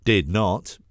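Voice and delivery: loud, high defiant shout; bellowing boy. A narrator's reading. Little brother shouting denial at his sister, loud. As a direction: yell it back like a cross little boy. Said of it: "bellows Davy".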